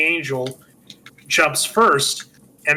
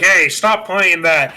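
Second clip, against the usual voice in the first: mildly raised, irritated mock scolding; mouthing off; 3 semitones higher, 3 dB louder than usual. George telling off his kids, mock irritation. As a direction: snap at them in mild mock anger. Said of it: "He starts mouthing off".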